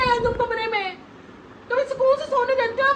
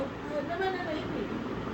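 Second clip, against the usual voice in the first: slow mumbled denial; 8 semitones lower, 12 dB quieter, much slower than usual. Acted. Wife mumbles denial again.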